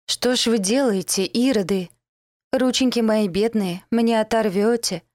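hammed-up wail, slowing at the end; a theatrical lament, not real pain; mock wailing. Girl dangling between guards, wailing in mock agony. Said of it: "надрывалась я".

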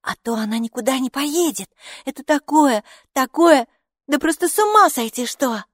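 high, loud breathless enthusiasm; excited gushing. A narrator's reading. Хилла tells Капо about the books, high excited gushing. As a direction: build up in amazement at the find.

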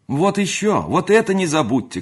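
put-on high, loud servant girl's call; high-pitched hurried shout; crying out. A narrator's reading. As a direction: call out urgently over the bustle. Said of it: "кричала девка".

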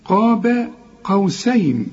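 قاب slow, heavy qaf then thin "be"; measured model of قاب قوسين, ba kept light; correct light ba. Shown as a demonstration. Teacher corrects the student, قاب with light ba, slowly. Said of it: "لا".

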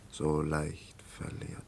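slow breathless whisper, words barely voiced. Man musing about lost steps, slow whisper. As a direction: let the line dissolve into a slow whisper. Drama, quiet reflective confession.

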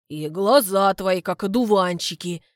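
a clumsy suitor praising her eyes, loud and earnest; earnest compliment. Acted. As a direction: deliver the compliment proudly.

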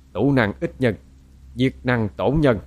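slow chanted proverb; poem recitation. A narrator's reading. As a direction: intone it slowly like classical verse. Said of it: "chậm chậm nói như ngâm thơ".

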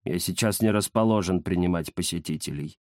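низкий ленивый голос; важно отказаться от гостей; ленивый кот Захар. Acted. (Захар лениво отказывает гостям)

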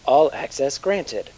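slow, measured computer voice; machine voice. Acted. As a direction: announce it like a scanner system. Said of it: "A voice from inside the console says".

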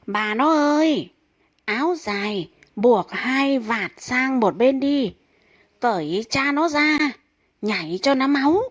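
husband cheering on his wife mid-show; loud drunken praise. Acted. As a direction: egg her on like a merry drunk. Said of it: "ông ta khen tướng lên".

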